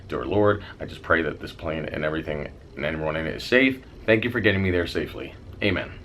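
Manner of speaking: low, slightly hushed prayer. Retold or imitated. Flyer praying before takeoff, low murmured prayer. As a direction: recite a private prayer, low and understated. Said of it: "I say another prayer".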